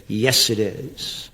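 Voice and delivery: slow, soft mock-calm yes; imitating cold reply. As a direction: drag it out quiet and unmoved. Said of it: "And she said".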